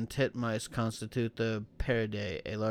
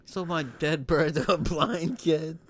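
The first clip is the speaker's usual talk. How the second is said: high, louder, slow parrot voice; 6 semitones higher, 6 dB louder, slower than usual. Pretend. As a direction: drag it out in a squawk. Parrot-voice joke.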